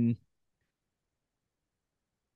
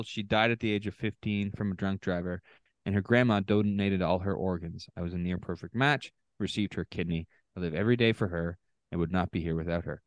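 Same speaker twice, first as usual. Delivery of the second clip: low, soft reading, touched by the loss; a little choked up; 5 semitones lower, 4 dB quieter than usual. Real, not acted. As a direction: read it quietly, a touch moved. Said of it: "I'm getting a little choked up".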